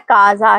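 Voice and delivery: "کازا" with a hard k at the start; hard k pronunciation. Shown as a demonstration. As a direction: demonstrate "کازا" as KA-za. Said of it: "اس کا صحیح تلفظ ہے". ("کازا" کو کاف کی آواز سے پڑھیں)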